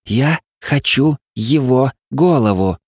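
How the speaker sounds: grind out the demand slowly; quietly furious. A narrator's reading. Evelin demanding the spy's head, slow seething. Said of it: "тихо яростно продолжила".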